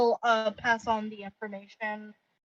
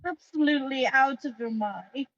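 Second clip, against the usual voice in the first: sarcastic; 3 semitones higher than usual. Acted. Player voicing her character's scornful reply, sarcastic. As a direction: say it with heavy sarcasm, lifting at the end. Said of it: "that was a very sarcastic tone".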